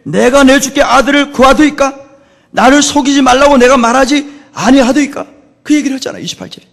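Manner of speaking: high, loud scripture quote in protest; angry outpouring. Retold or imitated. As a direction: declaim the woman's reproach at full force. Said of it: "막 퍼붓기 시작하는 거예요".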